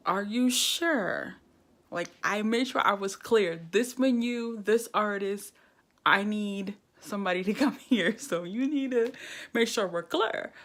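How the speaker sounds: loud, emphatic double-checking; hammering the point home; insistent. Retold or imitated. Pressing the cab company to confirm pickup, loud and firm.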